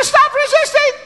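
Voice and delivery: very high, loud mock yell; voice shooting up. Son re-enacting his takedown for Dad, voice way up. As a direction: imitate a cop's yell in squealing falsetto. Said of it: "That voice went up".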